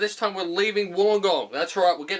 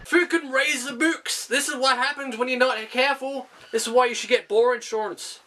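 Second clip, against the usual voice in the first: louder, slowing on the first words; mock outrage; 5 semitones higher, 6 dB louder than usual. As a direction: rant at the screen in mock anger. Mock outrage at film scene.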